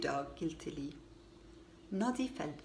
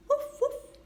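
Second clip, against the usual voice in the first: dog bark; 5 dB louder than usual. A narrator's reading. Bumpy Dog barks.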